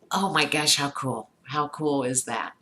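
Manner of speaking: put-on match a kid's excitement, bright and eager; shared enthusiasm. Parent joining son's excitement over the toy, eager delight. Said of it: "shared in his enthusiasm and said".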